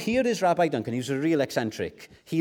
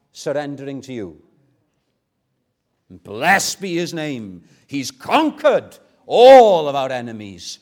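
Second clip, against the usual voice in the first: impassioned declaration; 11 dB louder than usual. Acted. Believer declaring all-out surrender to Jesus, impassioned, swelling to a shout. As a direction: cry it out in triumph, key words punched.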